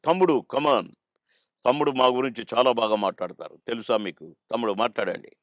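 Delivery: lightly voiced grand elder brother; a hint of NTR's booming call; NTR impression. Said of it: "అన్నగారు కూడా".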